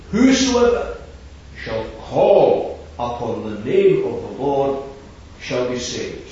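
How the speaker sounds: verse thundered out from the pulpit; proclaimed verse. Acted.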